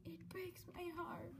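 breathy whisper, barely voiced; hushed whisper. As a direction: whisper it like a secret heartbreak. Reading a sad line.

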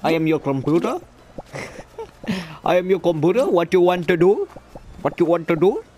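mock Indian accent as a talking computer; a hammed-up Indian English accent, computer voice. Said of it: "my Indian accent".

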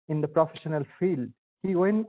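ordinary talk

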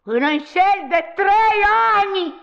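high, drawn-out exclamation; exasperated outburst. Acted. Woman hits back at her guilty lover, exasperated outburst. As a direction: stretch it out, pitched well up. Confesses affair in a quarrel.

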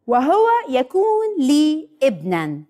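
very slow, word-by-word verse recital; slow recitation. Shown as a demonstration. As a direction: lead the children through it slowly. Leading children in slow group recitation. (ترديد بطيء كلمة كلمة)

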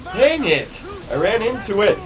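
high, loud cry after crashing; frustrated outcry. Real, not acted. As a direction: yell as the ship hits.

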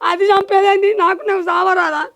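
loud tearful scolding; angry crying. Acted. Mother-in-law scolds daughter-in-law, loud and crying. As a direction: rail at her through tears.

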